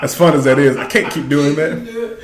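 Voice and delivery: hammed-up stiff proper speech; lightly put-on formal accent; mock Wakandan voice. Host mocks the movie's Wakandan speech, stiff proper voice. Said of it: "I can't do, I can't do it no more".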